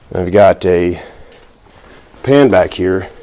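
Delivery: breathless, catching breath between words; winded, pausing for air. Real, not acted. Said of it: "if it sounds like I'm out of breath, it's because I am".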